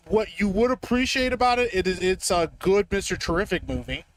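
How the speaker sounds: muffled mic, like in a closet; in a small room. Real, not acted. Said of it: "why do you sound like you're in the closet right now".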